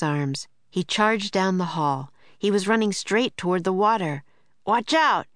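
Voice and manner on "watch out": crying out. A narrator's reading. Jack warns Teddy racing toward the water, sharp cry. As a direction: yell it as the dog runs off. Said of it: "cried Jack".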